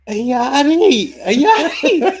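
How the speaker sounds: loud, high-pitched mock Scottish; hammed-up Scottish accent, drawn out. Shown as a demonstration. Streamer showing co-host his party piece, loud Scottish accent. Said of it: "I've got a Scottish accent I can do".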